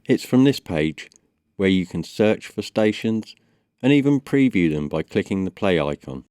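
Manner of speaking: ordinary delivery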